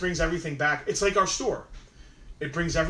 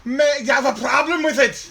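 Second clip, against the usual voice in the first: high, loud, hammed-up challenge; mock confrontation; 9 semitones higher, 9 dB louder than usual. Host challenges co-host's complaint about banshee, mock angry shout. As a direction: shout it as if picking a fight.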